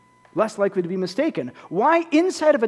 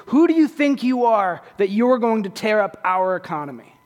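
indignant challenge; 4 dB louder than usual. Retold or imitated. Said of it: "The way they're actually asking this is".

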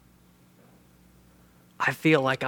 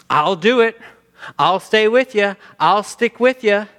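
raised, louder eager promise; confident pledge; 5 semitones higher, 4 dB louder than usual. Acted. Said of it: "they are positive thinkers".

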